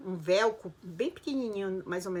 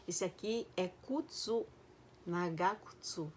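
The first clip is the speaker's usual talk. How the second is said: teaching a word; 5 dB quieter, slower than usual. Retold or imitated. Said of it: "começou a me ensinar".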